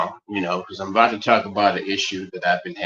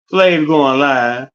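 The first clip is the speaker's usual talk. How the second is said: hype announcement; 2 semitones higher, 6 dB louder, much slower than usual. Acted. Hyping his own live stream.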